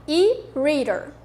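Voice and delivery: E-reader said slowly with a flapped R in the middle; slow, clear E-reader for repeating; model pronunciation. Shown as a demonstration. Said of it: "O D, ele vai se transformar em R".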